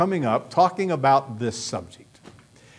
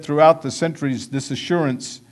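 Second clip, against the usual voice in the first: quoted sermon reading; 5 dB louder than usual. Retold or imitated. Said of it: "Someone said".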